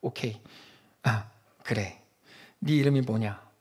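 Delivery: God asks Jacob his name, casually. Pretend. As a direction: speak as God, unhurried and offhand. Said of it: "하나님께서 이렇게 부르세요".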